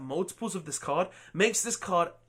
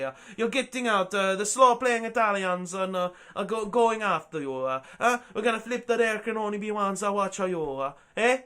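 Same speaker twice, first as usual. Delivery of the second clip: bad mock Italian accent, lightly put on; half-hearted fake Italian accent; terrible Italian accent. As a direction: ham up a clumsy Italian accent. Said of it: "That was a terrible Italian accent".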